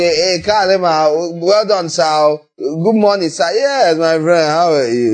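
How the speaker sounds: a light touch of lordly condescension to an underling; patronizing voice. Retold or imitated. Preacher mimics a rich man greeting admirers, mildly patronizing. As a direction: greet them like a big man doling out favours. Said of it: "The patronizing voice".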